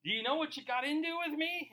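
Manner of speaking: hammed-up wrong number bro; incredulous protest. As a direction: play the reluctant recruit, wide-eyed. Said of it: "you're like".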